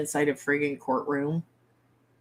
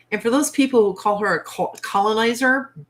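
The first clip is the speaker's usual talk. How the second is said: defiant; 3 semitones higher, 6 dB louder than usual. Real, not acted. Defiant retort to critics.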